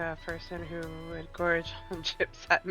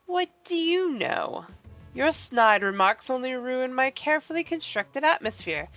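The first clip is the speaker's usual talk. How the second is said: higher, slow villain voice, offended; a gracious schemer taking offence; silky polite villain; 3 semitones higher than usual. Acted. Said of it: "Get your best villain voice ready".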